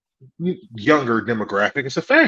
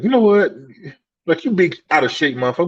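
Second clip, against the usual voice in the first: mocking insult; 4 semitones higher, faster than usual. Voicing an insulting person.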